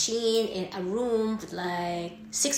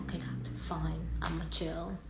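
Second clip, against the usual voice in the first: sulky surrender; 9 dB quieter than usual. Retold or imitated. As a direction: mumble it like a scolded kid. Gives in after reassurance.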